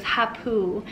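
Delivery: soft little breath-out imitating a toddler; imitated toddler breath. Mother imitating daughter's deep breath sound, soft and quiet. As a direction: mimic the child's big breath sound. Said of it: "That's her taking a deep breath".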